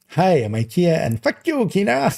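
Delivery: high, odd sing-song intro; overdone pitch swoops on the intro; weird inflection. Shown as a demonstration. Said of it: "weird inflection".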